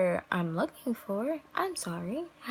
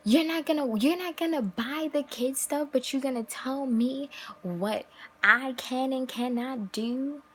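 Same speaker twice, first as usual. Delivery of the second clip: mocking quote; 5 semitones higher than usual. Mocks complaining girlfriend.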